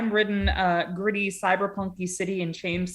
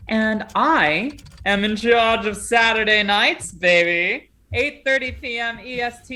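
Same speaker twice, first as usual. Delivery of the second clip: hyped announcement; 4 dB louder than usual. Real, not acted. Hyped host announcing his game.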